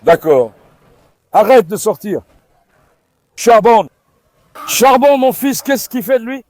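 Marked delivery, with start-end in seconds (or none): 3.4-6.4 loud call to the dog, higher. Real, not acted. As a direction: call him across the yard. Calling dog loudly. (appel fort au chien)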